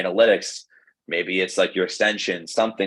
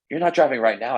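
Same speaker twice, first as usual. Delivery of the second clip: lightly voiced worried mother, raised pitch; motherly concern; 5 semitones higher than usual. Mother checking her son isn't driving, motherly concern. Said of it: "Of course, motherly instinct".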